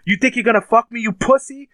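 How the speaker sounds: high-pitched mock yell, no real volume; retold screaming. Daughter fighting back against her attacker, mock screaming. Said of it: "she's screaming at him".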